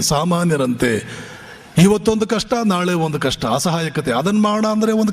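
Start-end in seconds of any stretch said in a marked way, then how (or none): 0.0-1.2 ಸಾಮಾನ್ಯರಂತೆ said lower and slowly through a scornful laugh; mocking laugh. Shown as a demonstration. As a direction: laugh at ಸಾಮಾನ್ಯರಂತೆ while dropping low. (ನಗುತ್ತಾ ಕೆಳಧ್ವನಿಯಲ್ಲಿ ವ್ಯಂಗ್ಯದ ಸಾಮಾನ್ಯರಂತೆ)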